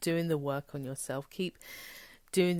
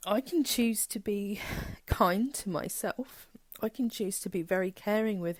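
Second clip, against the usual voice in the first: choked-up, near-crying whisper; close to tears; 4 semitones higher than usual. Real, not acted. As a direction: hold back real tears while whispering. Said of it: "oh, that's gonna make me cry".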